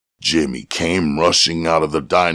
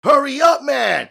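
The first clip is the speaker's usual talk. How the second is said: urgent shout. A narrator's reading. Jimmy hurrying Tiny along, shouting. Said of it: "Jimmy said".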